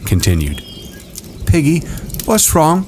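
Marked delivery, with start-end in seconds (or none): 1.5-2.8 put-on higher boyish voice. A narrator's reading. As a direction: voice a young boy. Boy character voice.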